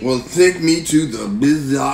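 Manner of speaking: laid-back surfer-dude voice, slow; slow dude-bro drawl. Acted. Dad teases his daughter with a slow, lazy dude-bro voice. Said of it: "Daddy, please stop talking like that".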